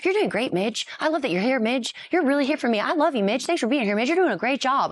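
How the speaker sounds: a hint of a doting big brother; hyping up his sister. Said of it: "He's like".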